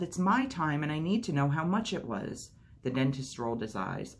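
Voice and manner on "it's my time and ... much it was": yelling. A narrator's reading. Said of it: "I yelled".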